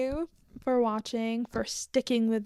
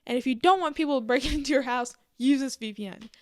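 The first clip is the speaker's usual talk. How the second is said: louder, fast sponsor pitch; mock ad read; 3 semitones higher, 5 dB louder, faster than usual. A vlogger pretending to read a sponsor ad, brisk and bright. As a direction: sell it like a quick ad spot. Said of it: "so I can be like".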